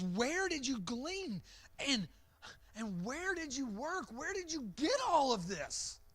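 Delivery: eager questions from a stunned mother-in-law; excited. Acted. Old Naomi asking Ruth about the harvest, excited. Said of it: "she's excited".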